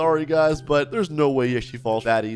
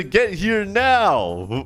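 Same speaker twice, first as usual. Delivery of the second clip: slow, higher mock command; stern kidnapper; 5 semitones higher, much slower than usual. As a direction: order the kid over, stretching the words. Kidnapper orders child over.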